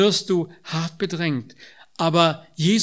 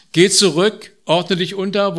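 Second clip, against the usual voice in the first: louder, pressing the command home; emphatic repeat; 2 semitones higher, 6 dB louder than usual. Acted. Preacher stresses how hard God's command was, louder. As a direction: punch GEH and hold the weight of it.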